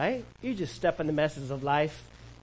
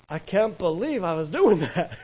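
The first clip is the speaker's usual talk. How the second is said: laughing disbelief; 3 dB louder than usual. Retold or imitated. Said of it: "you get saved and you're like".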